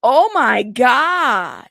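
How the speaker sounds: stretched out in disbelief; stunned. Real, not acted. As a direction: let it sink in, stretched. Reacting to explicit text.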